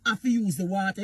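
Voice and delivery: lightly voiced politician, scornful; mocking the Prime Minister. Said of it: "You hear what the Prime Minister say?".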